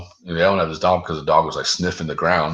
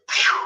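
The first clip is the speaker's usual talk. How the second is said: imitated whoosh. Imitates something zooming past.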